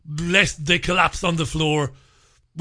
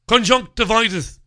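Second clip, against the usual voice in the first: vet's flat diagnosis; 5 semitones higher, 4 dB louder than usual. Retold or imitated. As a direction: announce Conjunctivitis like an obvious diagnosis. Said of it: "says she".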